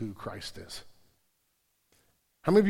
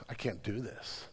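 defeated; 3 semitones lower, 6 dB quieter than usual. Retold or imitated. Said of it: "the easiest thing is at that point in time to go".

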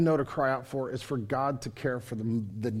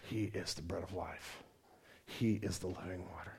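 quiet affirmation; 7 semitones lower, 12 dB quieter than usual. Acted. Quiet affirmation after climax.

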